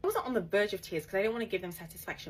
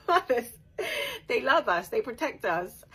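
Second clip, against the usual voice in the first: mothers; 6 semitones higher, 9 dB louder than usual. Real, not acted. Laughing about protective mothers.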